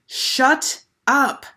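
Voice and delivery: loud, high scream. A narrator's reading. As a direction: scream it at her. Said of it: "screamed Jeff".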